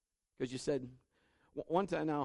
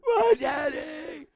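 high, slow, louder crying wail; worn-out child crying; 9 dB louder, much slower than usual. Retold or imitated. Tired daughter crying for daddy from bed, high slow loud wail. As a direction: wail like an exhausted little girl. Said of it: "her voice is all getting wore out".

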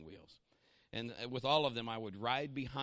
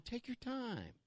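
devil's coaxing voice; 8 semitones higher, 6 dB quieter, slower than usual. Acted. Devil's soothing whisper voiced.

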